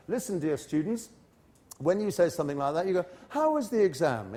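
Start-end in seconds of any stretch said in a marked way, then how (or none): 3.3-4.3 nice, friendly. Shown as a demonstration. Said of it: "In a nice, friendly way".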